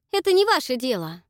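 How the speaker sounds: loud, high, snapped reply; a sharp, loud rebuff; curt cut-off. Acted. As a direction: cut him short. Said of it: "отрезала Дакота".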